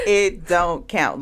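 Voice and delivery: slow, laughing through the words. Real, not acted. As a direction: giggle out the punchline.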